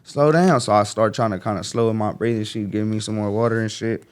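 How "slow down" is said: a lightly voiced mother, pitched up; mom calming him. Mother talking her shot son through panic, lightly voiced soothing. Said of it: "my mama, she told me, she like".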